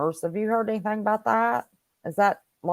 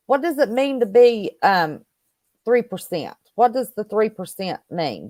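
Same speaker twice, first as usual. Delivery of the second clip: robot voice; 3 dB louder than usual. Real, not acted. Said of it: "You're sounding like a robot".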